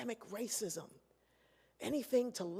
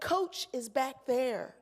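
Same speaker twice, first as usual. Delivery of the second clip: dismissive; 4 semitones higher, 5 dB louder, much slower than usual. Retold or imitated. Attendant sends her to coach.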